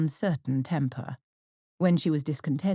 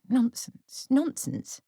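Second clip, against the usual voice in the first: higher, scornful double nonsense; emphatic dismissal; 9 semitones higher, much slower than usual. A narrator's reading. Mrs Bennet dismisses her husband, higher and scornful. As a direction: dismiss it with disdain. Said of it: "that emphatic exclamation".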